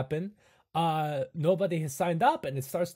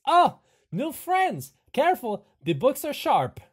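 Igor voice; 12 semitones higher, 8 dB louder than usual. Acted. Hunchback greets new arrivals and warns of books, high. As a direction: warn kindly while beaming.

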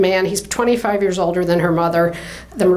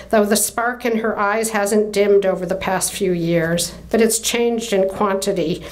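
measured literary read-aloud; story narration. A narrator's reading. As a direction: read the novel passage with clear, deliberate phrasing. Reads novel narration aloud.

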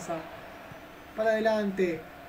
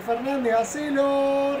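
urgent shout; 4 semitones higher, 3 dB louder than usual. Acted. Urging player on shot.

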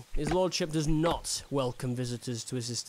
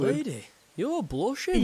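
teasing; 10 semitones higher than usual. Acted. Teasing the blushing lady.

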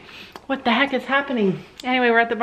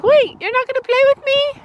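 much higher, louder plaintive pony voice; horse's voice; 12 semitones higher, 5 dB louder than usual. Retold or imitated. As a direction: whine like a pony left out. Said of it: "Penny's like".

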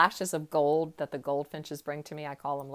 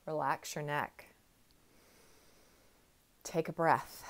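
self-talk, calming; 4 dB quieter than usual. Retold or imitated. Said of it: "I have to consciously go".

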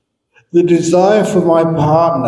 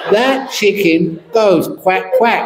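laughing punchline; 6 semitones higher than usual. Real, not acted.

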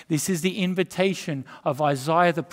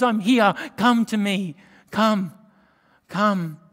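loud invitation; 4 semitones higher, 5 dB louder, slower than usual. Acted. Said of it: "he says".

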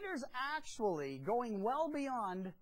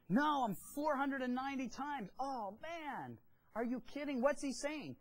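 mildly hammed-up disbelief, pitched higher; astonished; 4 semitones higher, 3 dB louder than usual. Disciples reacting to Jesus's seventy times seven, astonished. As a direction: play stunned disciples balking at the number. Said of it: "I bet their mouths dropped".

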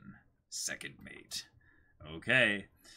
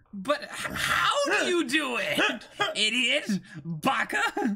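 mocking character voice; 9 semitones higher, 3 dB louder, slower than usual. Voicing Luffy's rival mocking him.

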